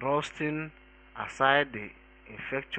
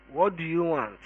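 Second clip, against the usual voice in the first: higher-pitched, mildly indignant question; angry challenge; 4 semitones higher, 3 dB louder than usual. A narrator's reading. Programmer confronting two intruders, mildly angry and raised in pitch. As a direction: press the intruders for a reason. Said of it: "rising angrily from his seat".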